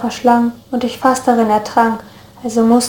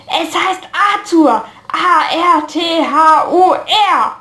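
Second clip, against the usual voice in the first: shouting; 6 semitones higher, much slower than usual. A narrator's reading. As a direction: lose patience, spell each letter. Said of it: "schrie ich schließlich".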